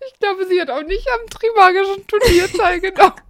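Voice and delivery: high, laughter-choked voice; cracking up mid-line. Real, not acted. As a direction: keep breaking into laughter. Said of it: "ich hab einen Lachflash". (immer wieder vor Lachen prustend)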